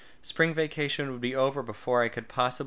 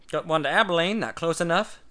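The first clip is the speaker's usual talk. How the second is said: high, loud gloating tease; loud smug gloat; 5 semitones higher, 5 dB louder than usual. A narrator's reading. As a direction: rub it in, gloating. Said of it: "he gloated".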